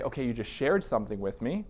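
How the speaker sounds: a therapist gently checking in after a heavy disclosure; gentle therapist check-in. Shown as a demonstration. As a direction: ask it gently, inviting the client to open up. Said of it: "creating a space to say".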